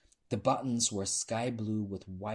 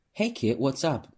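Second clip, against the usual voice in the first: loud, higher bar greeting; calling out; 5 semitones higher, 8 dB louder than usual. A narrator's reading. Bartender Meg to a regular, calling out. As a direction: call it across the bar. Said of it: "Meg called out".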